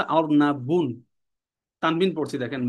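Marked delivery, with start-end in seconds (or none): 0.0-1.0 slow "অর্নাবুন" ending in a clear -un; tanween ending. Shown as a demonstration. Teacher showing students the tanween at the end, tanween ending. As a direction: draw out "অর্নাবুন" so the final "bun" is clearly heard. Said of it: "শেষে তানবিন পড়ছি না আমরা".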